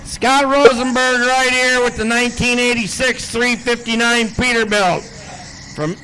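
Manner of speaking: a hint of an arena announcer; event announcer. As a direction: call out the driver's name and hometown to the crowd. Introduces the next truck puller.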